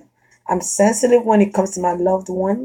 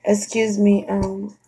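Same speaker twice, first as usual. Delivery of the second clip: polite soft approach; 7 dB quieter than usual. Retold or imitated. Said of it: "But if you're like".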